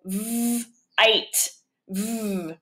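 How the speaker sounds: "v" as a buzzing v sound, then "ite" said long. Shown as a demonstration. Teacher to students sounding out the syllable, buzzing v. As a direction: stretch the v sound for the kids. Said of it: "Now I want the second syllable".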